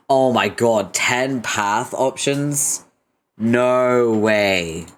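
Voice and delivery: loud, drawn-out amazement; real astonished outburst, held long; amazed disbelief. Real, not acted. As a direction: stretch it out, stunned by the surprise. Amazed at ten path options.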